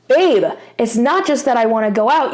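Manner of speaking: a touch of frustration in the tone; mildly exasperated, lightly pressed; a little frustrated. Shown as a demonstration. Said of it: "a little bit frustrated tone".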